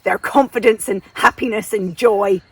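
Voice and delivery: mock disgust, lightly voiced English invader; hammed-up English disapproval; English colonial bully. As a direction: grumble as an affronted English overlord. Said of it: "the English came in and said".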